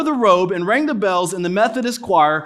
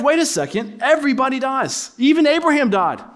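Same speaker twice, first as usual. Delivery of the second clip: higher, mocking disbelief, stretched out; incredulous Jews; 6 semitones higher than usual. Preacher voicing the doubting Jews, high incredulous mock. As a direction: play the scoffing crowd, pitched up. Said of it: "They're like".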